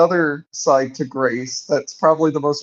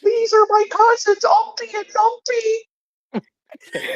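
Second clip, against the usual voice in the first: much higher, slow mock Dutch accent; silly Dutch voice; slower than usual. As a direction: draw out the names like a cartoon Dutchman. Friend joins the Oddball impression.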